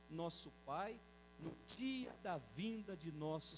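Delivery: slow, measured reading of the verse; solemn scripture reading. Acted. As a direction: stretch each word of the blessing. Reads verse thirteen slowly. (leitura solene e lenta do versículo)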